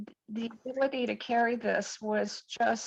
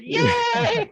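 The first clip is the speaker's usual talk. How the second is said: high, loud joyful cry; a burst of real delight; excited cheer; 13 semitones higher, 6 dB louder than usual. Real, not acted. Member cheers about starting her cleanse, loud excited yay.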